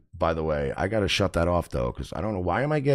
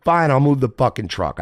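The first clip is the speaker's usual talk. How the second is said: loud, higher, grudging surrender; acted exasperation; 5 semitones higher, 5 dB louder than usual. Renter caving to end the standoff, loud exasperated retort. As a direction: give in with an irritated burst.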